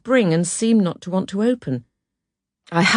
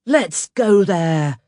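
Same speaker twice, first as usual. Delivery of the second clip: slow, louder actor's proclamation; Richard Burton announcing; 2 semitones higher, 4 dB louder, much slower than usual. Acted. Famous film star to his young hosts, slow proclamation. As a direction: announce it slowly in a grand actor's voice. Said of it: "he announced".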